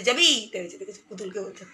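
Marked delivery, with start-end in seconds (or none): 0.0-0.5 put-on higher, louder baby-voice echo of the child's question; imitating the toddler. Mother echoing her toddler's question in a baby voice. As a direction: parrot the little one's question back in her voice. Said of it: "ওরে বাবা বলছে".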